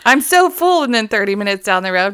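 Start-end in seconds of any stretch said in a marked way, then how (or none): 0.0-0.8 higher and louder, hammed-up full-belly complaint; mock stuffed groan. Friends on the drive home, mock stuffed whine. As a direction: play up being overstuffed. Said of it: "We'll be like".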